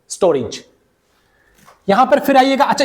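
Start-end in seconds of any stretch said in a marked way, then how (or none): 0.1-0.6 storage said as STO-rij, falling; correct pronunciation. Shown as a demonstration. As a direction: say storage with a short "ri" and final j. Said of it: "ये रे बन जाएगा री". (storage का सही उच्चारण, "स्टोरिज")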